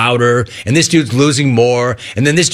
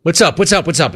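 rapid-fire imitated greeting; quick, piled-up hellos; fast talker; 4 semitones higher than usual. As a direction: imitate a pushy guy firing off greetings. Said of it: "Like, fast".

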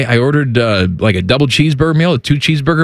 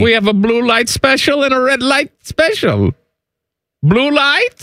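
put-on German accent; 3 semitones higher than usual.

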